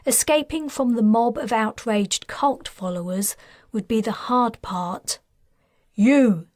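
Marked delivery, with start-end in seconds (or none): 6.0-6.5 loud sharp summons; sharp call. Acted. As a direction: call her out firmly. Officer calls out sharply.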